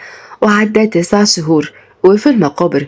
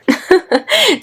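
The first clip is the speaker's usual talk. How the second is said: short high-pitched laugh; wife's light giggle; 13 semitones higher than usual. Acted. Wife laughs at husband's grumbling.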